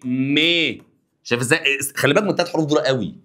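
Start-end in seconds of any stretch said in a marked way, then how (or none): 0.0-0.8 "مي" as an isolated, held meh; syllable model. Shown as a demonstration. Teacher drills M endings, "مي" held as a clear meh. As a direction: sound out "مي" on its own with an e vowel. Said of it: "هنا تبقى ايه؟".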